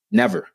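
Never thrown out high and sharp; emphatic never. Real, not acted. Insisting they never saw him as just black, with high emphasis.

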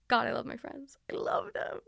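hushed, breath-only affection; tender whisper. Real, not acted. Gushing about loving her friends, tender whisper. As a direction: whisper it as if overcome with love.

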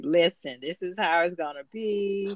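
the quarterback confronting Coach Boone, mock-tough; cocky quarterback. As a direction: square up like a cocky QB, lightly played. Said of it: "step up to Coach Boone and was like".

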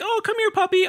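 put-on very high cooing kid voice; little girl. Little girl calling the puppy, high coo. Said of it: "was all like".

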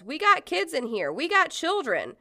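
high, urgent retold yell. Protester to woman with gun, yelling. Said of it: "One of the protesters yells".

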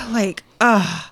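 high, loud, drawn-out indignation; hammed-up slow cry of shock; mock outrage. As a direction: wail it like a scandalized mother. Mock scandalized mother, exaggerated.

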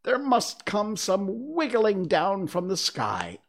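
high-pitched, frantic complaint; exasperated, high squawking tirade; rising shriek. A narrator's reading. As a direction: raise your voice toward a shriek. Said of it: "raising its voice to a shriek".

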